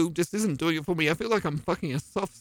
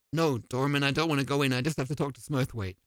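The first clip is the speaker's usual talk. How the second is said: low doorman voice; 6 semitones lower, 4 dB quieter, faster than usual. Acted.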